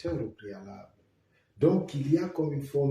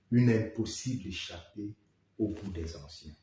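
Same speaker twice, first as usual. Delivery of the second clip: measured poem recitation with pauses after each line; poem reading; 2 semitones lower than usual. Acted. Poet reads a stanza before commenting on it, measured recitation. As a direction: declaim the verse line by line, letting the ends drop.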